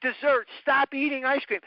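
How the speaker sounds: imitating scolding adults. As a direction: play the harsh doctor berating a fat little boy. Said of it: "What they said to me was".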